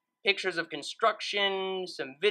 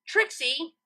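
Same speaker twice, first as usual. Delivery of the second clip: yelled; 9 semitones higher than usual. A narrator's reading. Twilight yelling down at Trixie from the window, rising call. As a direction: yell the name up with a rising call. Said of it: "she yelled".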